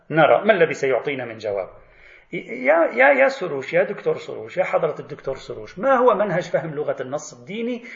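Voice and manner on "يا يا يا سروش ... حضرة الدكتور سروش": mock calling out. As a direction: call out to him like summoning someone. Calling out to Soroush. (نداء ساخر مرتفع)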